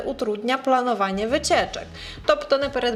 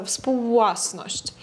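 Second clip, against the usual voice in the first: współwłasność drawn out very slowly; much slower than usual. Shown as a demonstration. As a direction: stretch współwłasność out so learners hear wu and eu. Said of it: "так протягується". (дуже повільно, протяжно)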